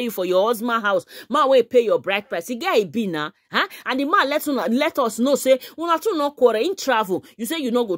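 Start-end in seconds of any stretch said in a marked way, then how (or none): none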